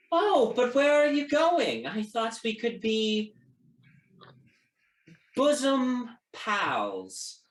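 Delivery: high, sing-out taunting call, slowing at the end; Felociel. Acted. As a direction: call out in a high put-on voice, drawing out the last words. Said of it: "Felociel calls out".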